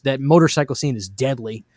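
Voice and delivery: strained hoarse voice. Real, not acted. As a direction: voice giving out, hoarse. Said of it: "losing my voice".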